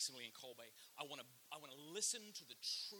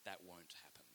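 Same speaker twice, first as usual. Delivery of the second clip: low, firm whisper; firm whispered warning; 8 semitones lower, 7 dB quieter than usual. Retold or imitated. Chuck confronting the guy at the stairs, low firm whisper. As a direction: hiss it low and final. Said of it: "and said".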